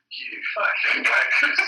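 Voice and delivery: hammed-up furious shout at the thieves; furious outburst. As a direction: spit it out like a boss who's been robbed. Boss finds brief stolen.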